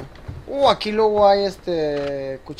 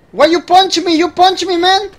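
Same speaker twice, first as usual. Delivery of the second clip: indignant protest; 5 semitones higher than usual. Real, not acted. Gamer yelling at a player who punched him, indignant.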